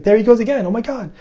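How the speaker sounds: put-on high, excited girlish voice; a spirit girlfriend squealing in alarm; girlfriend freaking out. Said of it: "And she's like".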